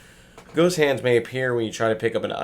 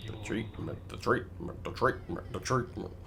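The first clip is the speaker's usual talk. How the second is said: softer breathy spooky repeat; eerie whisper; 7 dB quieter than usual. Pretend. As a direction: creep yourself out, softly. Eerie repeating after the file.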